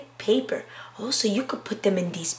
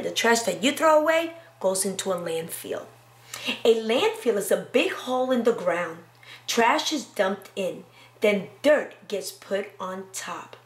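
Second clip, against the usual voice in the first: put-on reading to children. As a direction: read it aloud to a class. Reads picture book aloud.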